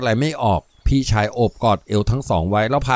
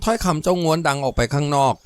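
ordinary delivery, nothing marked

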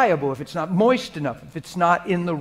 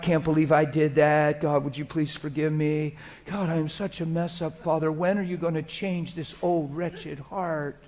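softer, mock-miserable pleading to God; self-pitying prayer; 3 dB quieter than usual. Shown as a demonstration. Pastor showing how people wrongly pray, mock self-pity. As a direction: play a wrong, whiny confession. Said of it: "You will never be changed talking like that".

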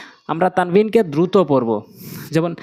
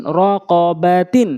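syllables stretched for learners; slow demo; much slower than usual. Shown as a demonstration. Teacher repeating so learners can follow, slowly. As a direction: take the word slowly, part by part. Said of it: "slow বলছি এই জন্য".

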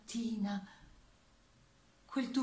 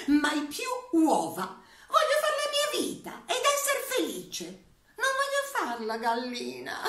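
high, loud rebellious hen voice; defiant hen; 3 semitones higher, 4 dB louder than usual. Acted. Hen telling the farmer she wants to be an actress, high and loud. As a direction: play a hen who refuses the oven. The hen speaks her monologue.

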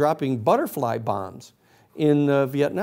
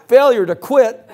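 much higher, louder, slow, gleeful echo; delighted disbelief; 9 semitones higher, 9 dB louder, slower than usual. Retold or imitated. Protesters echoing the charge, gleefully incredulous. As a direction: savor the absurd charge as a question. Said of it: "looked around and said".

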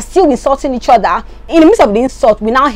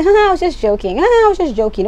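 high, breezy fake chuckle before the excuse; imitating a catty ha ha; mocking fake laugh; 8 semitones higher, faster than usual. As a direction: mimic a dismissive fake laugh. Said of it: "She does it to everybody".

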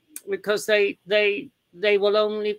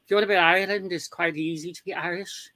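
put-on Irish accent; 2 semitones lower, faster than usual. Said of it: "Oh, there's the Irish".

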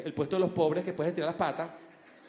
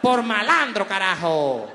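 mocking shop assistants; slower than usual. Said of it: "las dependientes decían".

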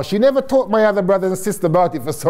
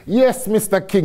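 higher, put-on Jamaican voice; Jamaican accent; 5 semitones higher than usual. Entrepreneur ringing the supermarket chief back, in his best Jamaican voice. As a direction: play up a strong Jamaican accent. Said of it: "in my best Jamaican voice".

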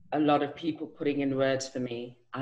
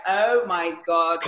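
mock shock; 2 semitones higher, 4 dB louder, slower than usual. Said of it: "I was like".

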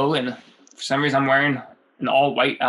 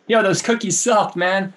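a bit higher, blunt dismissal; cocky version; 6 semitones higher than usual. Retold or imitated. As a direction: say it like a smug friend. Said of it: "I don't know if that's what he actually said".

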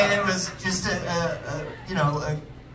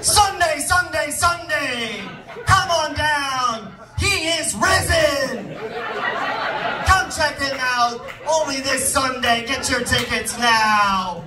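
high, shouted, drawn-out hype announcer; pitching church like a monster truck show, roaring hype; 5 semitones higher, slower than usual. Pretend. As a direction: yell it like a monster truck rally ad. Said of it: "we get monster truck announcers to, like, hype it up".

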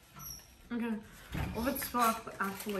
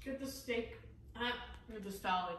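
talking with hiccups; words broken by hiccups; 12 dB quieter than usual. Real, not acted. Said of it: "Sorry, the hiccups".

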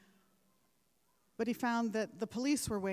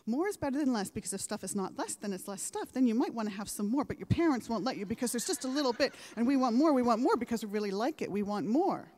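put-on fast, tumbling kid's ramble, louder as it goes; imitating a six-year-old girl; 5 dB louder, faster than usual. Commencement speaker reenacts a six-year-old in an ad, breathless rushed child voice. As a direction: rattle it off like an eager little girl. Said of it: "here's what I think she says".

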